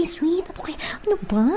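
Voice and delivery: soft quick whisper to herself; whisper, fast and unsure; whispered musing. Acted. Woman whispering to herself how to act, soft and quick.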